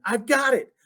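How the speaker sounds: high, happy cry of discovery; excited shout. Acted. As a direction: burst in with the big idea. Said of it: "She ran back inside shouting".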